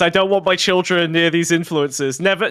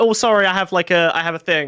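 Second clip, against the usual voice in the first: put-on offhand, chill, very casual, relaxed tone. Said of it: "Very casual".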